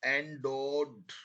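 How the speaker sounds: endowed drawn out slowly, every sound clear. Shown as a demonstration. Teacher repeating a dictation word slowly for spelling. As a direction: stretch endowed so the spelling can be heard. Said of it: "और धीरे धीरे बोल रहा हूं मैं अब आपको".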